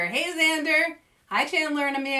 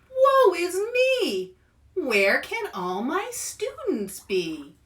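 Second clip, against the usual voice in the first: despairing teacher; 5 semitones higher, 4 dB louder than usual. Acted. Teacher finds his students gone, melodramatic wail. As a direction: cry it like a ruined man. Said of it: "Mister Drake said".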